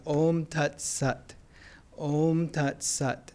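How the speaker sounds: Om Tat Sat said slowly in a flat American accent. Shown as a demonstration. For the group, Om Tat Sat in an American accent. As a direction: chant Om Tat Sat the American way, slow and drawn. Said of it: "I say it with American accent".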